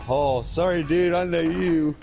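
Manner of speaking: high, loud sudden recognition; imitated apology. Vet recognising the man he cussed, imitated high apology.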